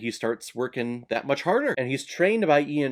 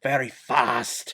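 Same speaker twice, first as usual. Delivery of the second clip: put-on hammy, unconvincing Scottish accent; terrible Scottish accent. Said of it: "Terrible Scottish accent".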